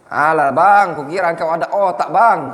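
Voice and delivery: put-on a light Medan accent, hitting "bang" hard. Teacher mimics how a Medan man would say it, light Medan accent. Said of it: "orang Medan ngomongnya agak lebih kenceng".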